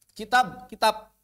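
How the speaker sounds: kitab said as kitap, final b turned to p; Indonesian devoicing. Shown as a demonstration. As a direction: kitab ending in a clipped p. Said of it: "Begitu kadang-kadang".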